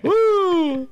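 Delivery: high loud celebratory woo; excited whoop. Real, not acted. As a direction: whoop to kick off the sign-off. Cheering before the outro.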